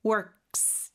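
works with a stopped k, then a bare s; compact final ks. Shown as a demonstration. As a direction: close the k in works and attach a hiss of s without a vowel. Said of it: "스 발음을 뒤에 붙여주시면".

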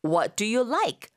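each word drawn out slowly; slowed teaching model. Shown as a demonstration. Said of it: "하면은".

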